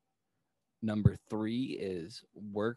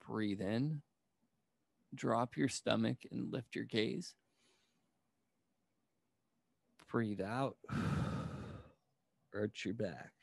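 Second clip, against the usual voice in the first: soft, unhurried yoga-teacher cues; guided breathing; 6 dB quieter, slower than usual. Real, not acted. Teacher guiding a group through cat-cow breathing, soft and measured. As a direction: lead them gently through each breath, softly, with long pauses.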